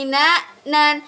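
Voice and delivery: "nan" pressed and held with nasal hum; stressed nan. Shown as a demonstration. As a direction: hold the n of "nan" longer. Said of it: "Di bagian nan itu harus ditekan".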